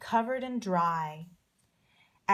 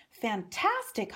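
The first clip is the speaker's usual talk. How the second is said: exclaiming. Acted. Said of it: "Hoppy exclaimed".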